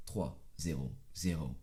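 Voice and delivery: legendary announcer naming the fastest man; trailer announcer voice. Pretend. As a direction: intone it like a movie trailer. Mock movie-trailer legend intro.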